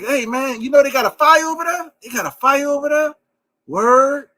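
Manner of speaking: sedated New Yorker accent. Shown as a demonstration. Firefighter hears of a fire, laid-back New Orleans accent. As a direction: play an unrushed New Orleans local with New York vowels. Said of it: "We sound like we're a sedated New York, New Yorker".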